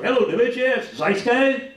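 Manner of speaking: mock kid voice on the phone; a hint of a kid asking the DJ; kid calling the radio. Comic imitating a kid phoning the DJ, mildly childish. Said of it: "That's a kid".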